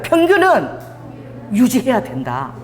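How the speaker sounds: call to repeat. Shown as a demonstration. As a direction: sing out 평균은 for them to repeat. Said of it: "따라해봐요".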